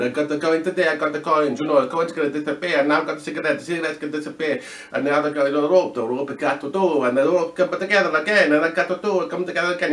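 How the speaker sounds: imitating a New York Italian accent; hammed-up Italian-American accent, running on in a lilt. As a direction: do a little magician's patter in an Italian accent. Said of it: "little kind of Italian accent".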